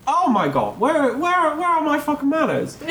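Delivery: high, frantic priest voice; a flustered priest blurting out a curse; the priest suddenly very high and frantic; priest losing it. Acted. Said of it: "the priest goes".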